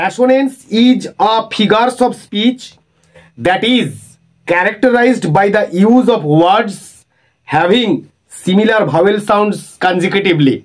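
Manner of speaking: slow, deliberate reading of notes; slow dictation. Acted. Teacher dictating sonnet notes to students, slow and measured. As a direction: read it out slowly so the class can copy it. Teacher reads definition to class.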